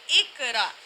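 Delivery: اقرا as "ikra" with a thin front k; wrong light kaf. Shown as a demonstration. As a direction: say اقرا with kaf in place of qaf. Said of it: "یہ ہمارا کاف یہ والا ادا نہیں ہو رہا". (اقرا میں قاف کی جگہ باریک کاف)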